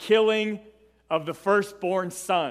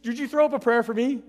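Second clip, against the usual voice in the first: desperate Pharaoh; 5 semitones higher, faster than usual. Retold or imitated. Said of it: "He's literally asking Moses".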